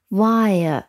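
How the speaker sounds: "Wire" as one gliding diphthong; teacher modelling the vowel glide in "Wire"; diphthong demo. Shown as a demonstration. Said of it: "它是一个双元音".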